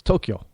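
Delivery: Tokyo in two syllables, "TOH-kyo"; Japanese pronunciation. Shown as a demonstration. Correcting American usage, Japanese-style Tokyo. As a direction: run K and Y together in Tokyo. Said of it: "No E in between the K and the Y".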